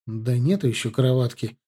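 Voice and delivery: ordinary delivery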